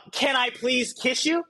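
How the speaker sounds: slow, overly polite request for a kiss; awkward pleading ask. Retold or imitated. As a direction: ask slowly and timidly, like a nervous guy. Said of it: "You don't want that dude to be talking about".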